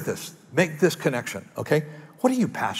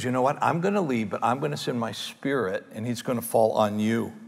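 soft intimate telling; 4 semitones lower, 5 dB quieter than usual. Acted. Jesus quoted softly.

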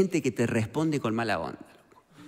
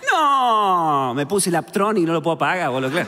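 louder snappy comeback; sarcastic loud retort; 5 dB louder than usual. Retold or imitated. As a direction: fire back the joke loudly. Respuesta sarcástica sobre el frío. (contesta burlón y fuerte al que pregunta si tiene frío)

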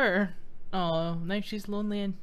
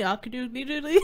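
Ned Flanders voice; faster than usual. Acted. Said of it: "He looks like Flanders, so I'm trying to give him a voice".

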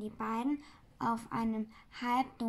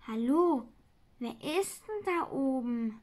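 calling out; 4 dB louder than usual. Acted. Man calls up to the attic.

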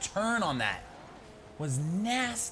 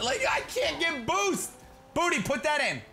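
whiny complaint; 13 semitones higher, 4 dB louder than usual. Real, not acted. Whining about no boost.

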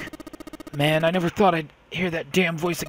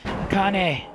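loud, high call of a name; crying out; 4 semitones higher, 5 dB louder than usual. Acted. Brother bursts in to save sister, loud cry. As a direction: shout for her in alarm. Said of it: "He cried my name again".

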